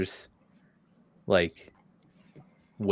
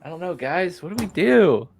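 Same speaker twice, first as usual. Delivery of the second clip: high-pitched, anxious appeal; nervous; 7 semitones higher than usual. Real, not acted. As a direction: worry aloud to the group, voice pitched up. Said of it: "I'm nervous to try".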